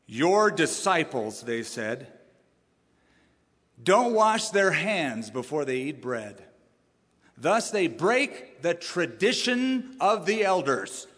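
slow, pointed accusing Pharisees; mock indignation. Pharisees complaining to Jesus, slow mock indignation. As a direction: drag out the complaint, offended. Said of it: "they were torqued".

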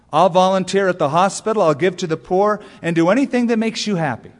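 pleading prayer. Acted. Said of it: "on her knees she prayed".

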